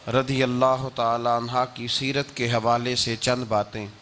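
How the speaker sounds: low, even formal address; formal sermon opening. Acted. Preacher introduces his talk on Khadija after praise, formal low delivery. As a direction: announce the topic with measured reverence.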